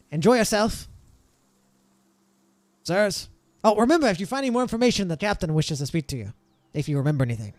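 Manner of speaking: lightly voiced eager salute, settling toward the end; a hint of an obliging young subordinate; dutiful guard. GM voices Ronald seeing the party off.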